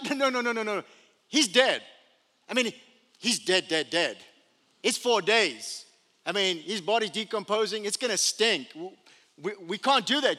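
loud, insistent refusal; protesting bystanders. Acted. Mourners refusing to open the tomb, loud and insistent. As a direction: shoot the idea down fast. Crowd refuses to roll stone.

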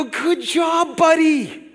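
put-on proud father hyping up his little boy; encouraging dad. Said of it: "I picked him up and I held him up and I go".

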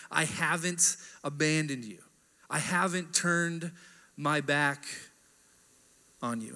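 tender promise. Retold or imitated. Pastor voicing God gently to exiled people, tender and slow. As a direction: reassure them slowly, letting each phrase land.

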